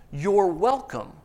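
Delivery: slow, self-satisfied you're welcome; a teen pleased with himself; smug teen. Retold or imitated. Teen handing back the stolen watch, slow and smug. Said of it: "And he goes".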